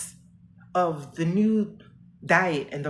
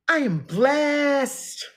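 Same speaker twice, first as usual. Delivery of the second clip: higher and louder, very slow, voice breaking into tears; crying; 7 semitones higher, 5 dB louder, much slower than usual. Real, not acted. Woman reminding herself she is blessed, crying. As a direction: choke it out through real tears.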